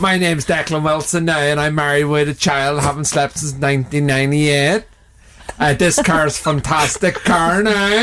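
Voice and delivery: lightly voiced car salesman impression; a hint of a chatty used car dealer; Declan. Player introducing himself as his friend the car salesman, light impression. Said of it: "So pretend you're Declan and you're a used car salesman".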